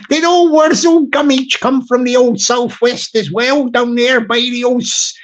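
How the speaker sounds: a playful hammed-up West Country voice that drifts into an Indian lilt; West Country accent. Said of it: "I was nearly lapsing into my Indian accent".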